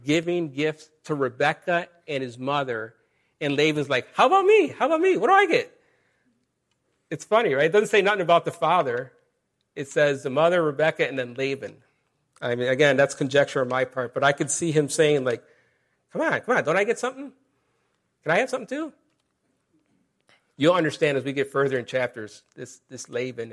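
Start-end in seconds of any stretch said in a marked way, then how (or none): 4.1-5.8 high-pitched, loud mock complaint; whining Laban. Laban sees the others get gifts, high indignant whine. 16.1-18.9 high-pitched mock pleading; wheedling Laban. Laban angling for a gift too, high wheedling plea.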